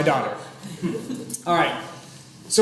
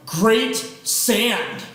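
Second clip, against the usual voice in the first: put-on child's sarcasm try; much slower than usual. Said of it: "Was that sarcasm".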